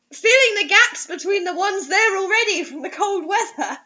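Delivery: reading through giggles; can't keep a straight face reading; laughing through the line; laughing while reading. Real, not acted. Dramatic story reading mocked.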